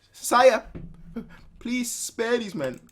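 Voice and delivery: high pleading woman. Acted. Uzume begging the king, high and pleading.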